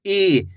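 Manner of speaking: ई stretched out; long ee. Shown as a demonstration. Teacher repeating the long ई, stretched. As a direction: hold ई long. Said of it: "खींच के पढ़ते हैं".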